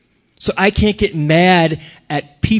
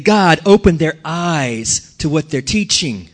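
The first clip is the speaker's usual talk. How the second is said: earnest prayer; 2 semitones higher, 4 dB louder than usual. Acted. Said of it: "Instead of saying".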